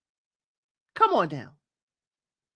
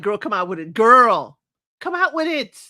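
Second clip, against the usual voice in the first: impatient call; 5 dB louder than usual. Retold or imitated. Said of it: "I was like".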